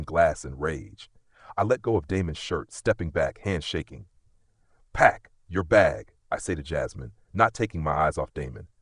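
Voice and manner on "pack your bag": slow, loud, no argument; firm command. Acted. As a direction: order it, steady and hard. Father ordering daughter to leave.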